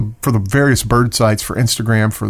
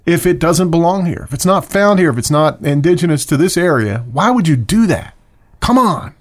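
higher, pressing exasperated questions; real rant; 5 semitones higher than usual. Real, not acted. Scolding listeners who release non-native birds, exasperated rant. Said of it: "That's my rant for the week".

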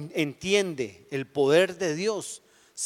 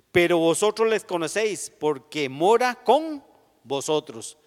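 emphatic reading; 2 semitones higher, 6 dB louder than usual. Acted. Loud scripture reading.

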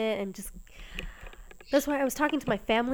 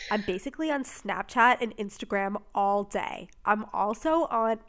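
a light New York accent, slightly louder; 3 dB louder than usual. Shown as a demonstration. Reading out her quiz answer in a light New York accent. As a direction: let a hint of New York slip into the vowels. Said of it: "why am I sounding New York?".

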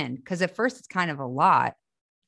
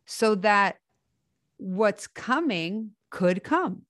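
airy breathy mystical healer; 3 semitones higher than usual. Acted. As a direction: speak as a gentle spiritual guide. Channels an inspirational message.

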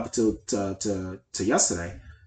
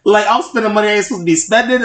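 laughing; 10 semitones higher, 8 dB louder, faster than usual. Real, not acted. Admitting overspending, laughing.

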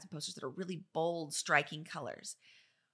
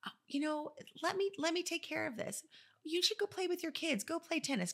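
higher, lighter voice reassuring the client; soothing designer voice; 3 semitones higher than usual. Shown as a demonstration. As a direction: coax the client to relax and leave it to you. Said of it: "you tell the client".

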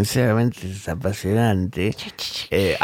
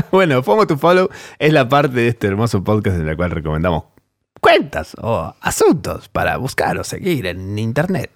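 goblin voice. Acted. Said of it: "¿Te gusta mi voz de duende?".

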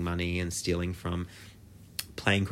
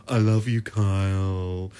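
tender mock declaration; 3 dB louder, slower than usual. Mock declaration to absent star.

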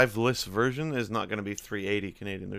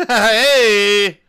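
loud laughing protest; indignant shout; 10 semitones higher, 14 dB louder than usual. Real, not acted. Protesting the teasing.

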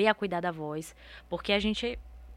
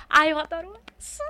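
high, loud gushing aside; squealed, excited little outburst; delighted fan; 9 semitones higher, 6 dB louder than usual. Retold or imitated. Acts out her delight on stage.

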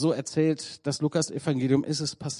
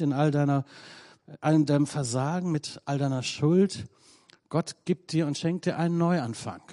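earnest altar call; 2 semitones lower than usual. Acted. Preacher calls one person forward, tender altar call. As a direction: invite the broken to come forward gently.

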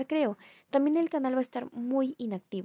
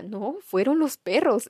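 trembling voice; 6 dB louder, slower than usual. Retold or imitated. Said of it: "le temblaba la voz".

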